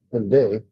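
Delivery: "one day" with DAY stressed and drawn out; one DAY, second word accented; stress on second syllable. Shown as a demonstration. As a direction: slowly lean on the "day" of "one day". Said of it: "the accent was on his second syllable".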